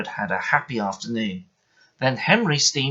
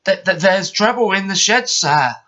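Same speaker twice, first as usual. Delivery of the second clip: nervous stammer; 8 semitones higher, 6 dB louder than usual. Acted. Station master reports trouble.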